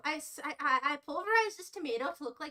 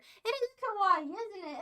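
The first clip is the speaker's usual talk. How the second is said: slow gushing kawaii; excited anime fan; 4 semitones higher, 3 dB louder than usual. Acted. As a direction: coo over how cute it is. Cooing over cute meat sculpture.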